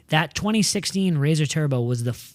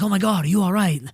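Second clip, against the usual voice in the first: mildly raised mock alarm; retold freak-out; 4 semitones higher than usual. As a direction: imitate onlookers fretting, lightly. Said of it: "they're freaking out".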